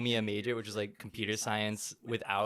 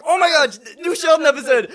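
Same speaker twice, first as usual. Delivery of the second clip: excited mom; 14 semitones higher, 16 dB louder than usual. Retold or imitated. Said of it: "She's like".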